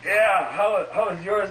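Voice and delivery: a hint of a chummy guy; guy asking. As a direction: friend asking, lightly voiced. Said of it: "turns to me and goes".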